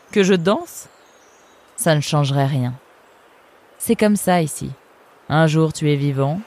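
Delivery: a cool, sardonic river guard; fox guard's voice. Acted. Eunice sizing up the arrivals, lightly voiced sardonic fox. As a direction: speak down to the newcomers, unimpressed.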